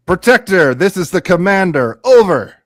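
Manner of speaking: loud radio-style call. Acted. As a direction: speak into a walkie-talkie. Speaking into communicator.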